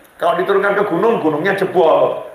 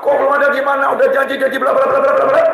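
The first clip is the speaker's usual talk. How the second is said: angry wife; 6 semitones higher, much faster than usual. Retold or imitated. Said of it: "Jadi istrinya marah-marah".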